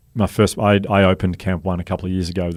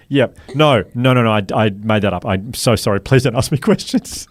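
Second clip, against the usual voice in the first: flustered confession; 3 semitones higher, 5 dB louder than usual. Retold or imitated. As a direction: blurt out the panicked backtrack. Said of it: "And I went".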